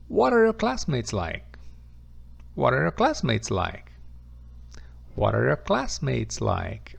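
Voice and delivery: careful teacher repetition; model question, repeated. Shown as a demonstration. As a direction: drill the question for the class. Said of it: "have you guessed".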